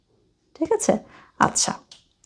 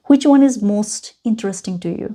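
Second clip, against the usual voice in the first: very slow, spaced out question; slow teacher question; much slower than usual. Shown as a demonstration. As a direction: ask it slowly so a learner follows. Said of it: "slow question to learner". (ধীরে ধীরে প্রশ্ন)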